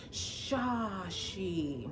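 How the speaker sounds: "Shashi", a teacher fumbling the name; mock a teacher misreading "Shashi"; teacher's mispronunciation. Teacher misreading a student's name on the roll, fumbling. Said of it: "see how she was gonna pronounce it".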